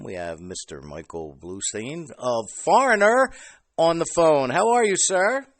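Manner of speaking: hosting voice, building to a big welcome; show introduction. Acted. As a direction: introduce the phone guest like a radio host. Radio-style introduction of guest.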